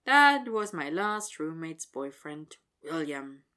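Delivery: slow, tired sigh; weary. Acted. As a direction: drag it out, worn out. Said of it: "suddenly more tired than he's ever been".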